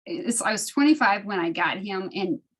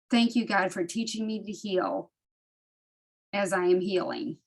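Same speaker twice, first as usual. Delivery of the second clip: prayer recitation. Acted. Sharing the truly helpful prayer with the group, prayer recitation.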